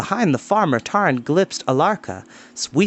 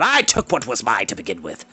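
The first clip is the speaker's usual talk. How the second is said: haughty rival lord; 3 semitones lower than usual. Acted. Rival lord answering the accusation, haughty and low. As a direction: lower lordly retort.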